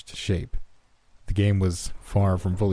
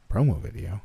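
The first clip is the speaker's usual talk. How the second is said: "Promo video?" with a rising questioning end; mildly curious, "Promo video?" lifting at the end; inquisitive; 3 dB quieter than usual. A narrator's reading. Narrator querying Jason, "Promo video?" as an inquisitive rise. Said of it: "I asked inquisitively".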